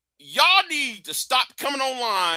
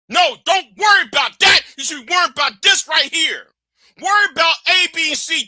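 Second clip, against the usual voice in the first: loud, urgent lecture; host steering viewers the right way, shouting; shouted instruction; 4 semitones higher, 4 dB louder than usual. Real, not acted. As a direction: shout the priorities at them.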